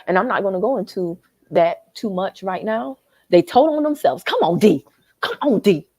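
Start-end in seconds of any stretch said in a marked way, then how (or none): 3.3-5.9 loud outburst; yelling. Real, not acted. Yelling at viewers from a hotel lobby, exasperated. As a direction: yell it out, fed up. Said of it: "Got me yelling in this hotel lobby".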